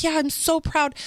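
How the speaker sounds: lightly voiced child, eager to agree; proud little boy. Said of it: "don't you feel proud".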